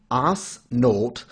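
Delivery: Osnote said English-style as "oss-note"; mispronounced German name. Shown as a demonstration. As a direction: say Osnote with plain ah and oh vowels. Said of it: "the improper pronunciation".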